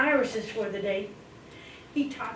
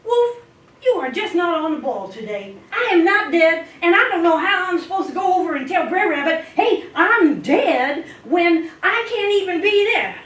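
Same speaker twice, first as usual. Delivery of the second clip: loud, laughing, higher exasperation; exasperated; 7 semitones higher, 5 dB louder than usual. Acted. Brer Fox loudly mocking Brer Wolf's dumb plan.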